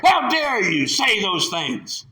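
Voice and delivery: drawn-out scolding; how dare you, leaned on; indignant, slow. Acted. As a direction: slowly drag out the outrage. Pharisees reviling the man.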